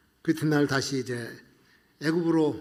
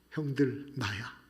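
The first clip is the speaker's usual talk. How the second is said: low, hushed and tender; soft reveal; 5 semitones lower, 9 dB quieter, slower than usual. Acted. Joseph tells his brothers who he is, low and hushed. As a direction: let it fall quietly to the brothers.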